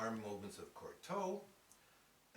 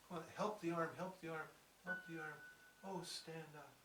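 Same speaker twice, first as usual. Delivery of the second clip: softer, easy invitation to stand; gentle coaxing; 4 semitones higher, 5 dB quieter than usual. Shown as a demonstration. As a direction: coax it gently, no strain. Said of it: "You see the difference".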